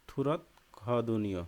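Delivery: থুরত খদনীয় spoken slowly with an aspirated খ; Korean pronunciation. Shown as a demonstration. Teacher reads the Korean phrase aloud for students, slow and deliberate. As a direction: carefully sound out থুরত খদনীয়. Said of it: "এখানে হবে হচ্ছে".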